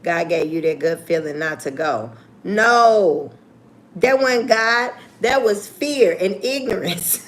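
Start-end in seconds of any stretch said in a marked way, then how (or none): 2.4-7.2 louder, laughing emphatic no; laughing, slowed on that was fear and ignorance; laughing correction. Real, not acted.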